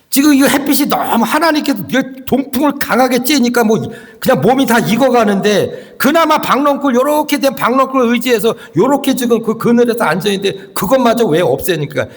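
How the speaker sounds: high-pitched, lightly acted grumbling; indignant complaint. Jonah's grumbling acted in sermon. (억울해서 따지는 높은 목소리)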